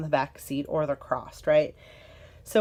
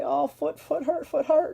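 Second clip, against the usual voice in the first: put-on high, babyish complaining voice, much higher; imitating toddler; 8 semitones higher than usual. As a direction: talk like a two-year-old in pain. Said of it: "and say".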